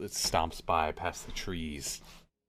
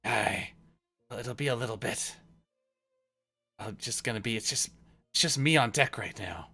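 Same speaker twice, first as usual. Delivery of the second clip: raised, higher character voice, hesitant; loud, high-pitched, unsure sailor; hesitant boat hand; 8 semitones higher, 7 dB louder than usual. Acted. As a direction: answer haltingly as the crewman left on deck. GM voices sailor answering the Sending.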